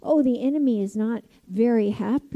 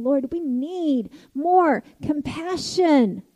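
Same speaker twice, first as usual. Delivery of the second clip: slow, crying plea to the Lord; a choked-up cry for more compassion; tearful prayer; 3 semitones higher, slower than usual. Real, not acted. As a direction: let the voice break as you ask.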